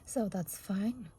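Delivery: husky, hoarse voice; losing her voice, hoarse. Real, not acted. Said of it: "I think I'm losing my voice".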